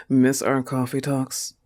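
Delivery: scornful disbelieving repeat of "Miss our coffee talks"; sarcastic questioning echo; incredulous echo. Acted. Scoffing at the rival's text.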